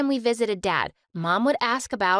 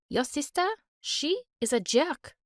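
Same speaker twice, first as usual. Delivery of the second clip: put-on French accent; 3 semitones higher, 4 dB quieter than usual. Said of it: "spoke in a sweet French accent".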